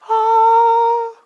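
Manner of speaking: loud, long held high note; mock-heavenly "aah" held out; high sustained "ah". Preacher acting the prophetess's arrival, high sustained cry.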